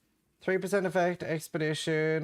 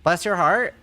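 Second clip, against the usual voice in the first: louder, lightly put-on Southern belle voice; Southern accent; 5 dB louder than usual. Streamer teasing a friend in a mock Southern accent. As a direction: say it like a sweet Southern lady.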